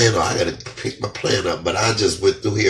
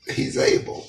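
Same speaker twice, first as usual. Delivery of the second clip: whispered; 3 dB quieter than usual. Real, not acted. Repeating song title, overcome.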